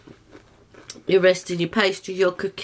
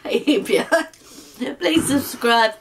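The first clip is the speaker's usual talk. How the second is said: laughing; 3 semitones higher, much slower than usual. Real, not acted.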